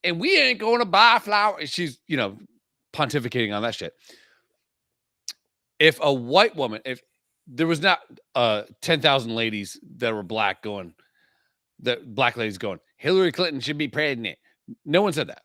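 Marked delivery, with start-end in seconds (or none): 0.0-1.7 mock Kamala quote. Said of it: "even though she goes". 13.0-14.4 bad impression. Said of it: "That was a bad impression of Tess".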